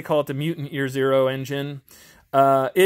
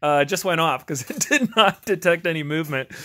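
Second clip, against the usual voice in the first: real chuckle breaking into the words, slightly raised pitch; amused; 2 semitones higher than usual. Real, not acted. Vlogger to viewers about the garage light going off, amused. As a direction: talk through a small laugh at a mishap.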